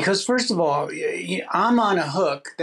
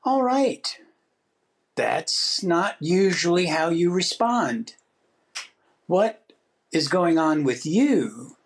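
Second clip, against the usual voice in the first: calm self-talk; slower than usual. Retold or imitated. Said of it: "I want to say".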